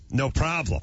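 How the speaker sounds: usual speaking voice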